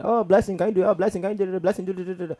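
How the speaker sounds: high, sing-song mom voice; mom calling Blessing. Retold or imitated. Mom ordering cousin Blessing around at events. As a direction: call the cousin like a busy mother.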